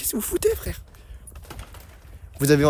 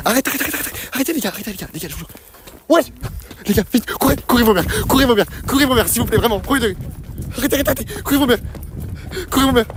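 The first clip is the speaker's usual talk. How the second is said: panicked shouting; 4 semitones higher than usual. Real, not acted. Fleeing a pursuer.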